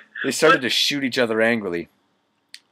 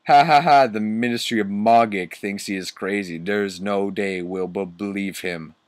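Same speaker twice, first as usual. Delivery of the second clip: lightly voiced mean teacher after a mock laugh; Snape, mean laugh. Teacher scoffing at the students' threat, lightly mean. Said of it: "Snoop laughed meanly".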